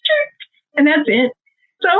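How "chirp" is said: short high tire-squeal noise; imitated tire chirp. Mother describing her Corolla's failed wheel squeal, imitated chirp. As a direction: mimic a feeble little wheel chirp. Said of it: "It goes".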